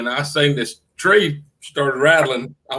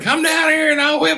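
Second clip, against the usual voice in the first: very high, shrieking scream; 13 semitones higher than usual. Recounting a companion standing in a river screaming at a man, imitating someone screaming. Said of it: "screaming at him, screaming".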